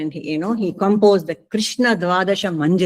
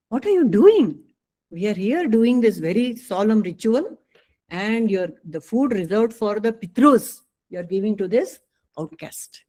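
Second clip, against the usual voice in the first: indignant priests scolding; 3 semitones higher than usual. Retold or imitated. Angry Brahmins scolding Ayyawal for feeding the outcast, outraged. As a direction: scold him for wasting the sacred food.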